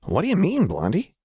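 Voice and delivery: put-on high girlish question; Jinx voice. A narrator's reading. Jinx looking up at Lux, high curious voice. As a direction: lift it high and quick.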